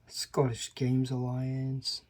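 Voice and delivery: slow, hammed-up Scottish accent; clumsy mock-Scottish delivery; bad Scottish accent. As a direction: attempt a Scottish accent, slowly and badly. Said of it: "That was a horrible impression".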